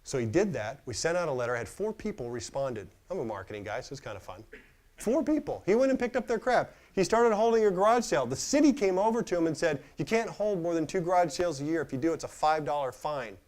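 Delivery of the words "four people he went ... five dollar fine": much higher and louder, rising enthusiasm; getting excited. Real, not acted. Speaker gets fired up telling the audience, excited and high. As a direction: let the story carry you away. Excited retelling of garage sale.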